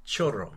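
CHORRO with "oh" and a rolled R; Spanish pronunciation. Shown as a demonstration. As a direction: say chorro in Spanish, CHO-rro. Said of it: "to me in Spanish".

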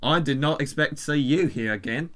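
rough attempt at Australian; Australian accent. Giving up on South African for the email, Australian accent. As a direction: switch to an amateur Australian accent. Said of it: "I'm just gonna do Australian".

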